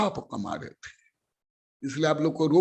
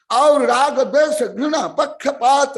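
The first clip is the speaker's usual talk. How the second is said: laughing scorn; 5 semitones higher, 6 dB louder than usual. Real, not acted. Preacher scolding listing vices.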